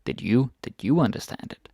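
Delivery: "you" stressed, as against I. Shown as a demonstration. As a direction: lean on "you" to put it to the listener. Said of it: "I put this stress on du".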